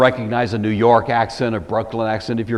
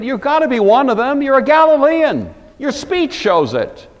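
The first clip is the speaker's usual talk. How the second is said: high-pitched, loud accusation; insistent accuser, high and pressing; accusing bystanders; 13 semitones higher, 5 dB louder than usual. Acted. Bystanders accuse Peter, acted out.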